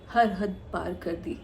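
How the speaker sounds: slow, weighted confession at normal volume; slow, deliberate. Acted. Woman telling how far she went for Atif, slow and deliberate. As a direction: draw out each word deliberately. Recalls going all out for Atif.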